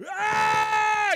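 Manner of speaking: sudden loud yell, high-pitched, no words; mock angry roar. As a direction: let out a big burst of rage. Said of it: "can go".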